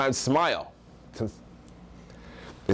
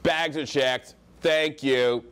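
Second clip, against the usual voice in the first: lightly mocked high value tonality; every phrase a declaration, like an assertive American; brash American traveller; slower than usual. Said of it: "saying everything in high value tonality".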